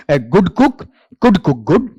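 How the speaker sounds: "A good cook could cook good" rattled off quickly without a break; fast tongue twister. Shown as a demonstration. Teacher showing students the tongue twister said fast. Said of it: "इसे fast बोलेंगे".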